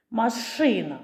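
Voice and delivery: «машина» stressed on и, ma-SHY-na; stress on second syllable. Shown as a demonstration. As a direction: lean on the и in «машина». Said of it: "пошукаємо наголошений звук у слові". (наголос на «и» в слові «машина»)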